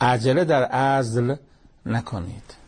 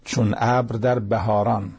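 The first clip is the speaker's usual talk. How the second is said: slow, measured verse reading; unhurried poetic recital; poem recitation; slower than usual. Acted. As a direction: recite the couplet slowly, drawing out the words.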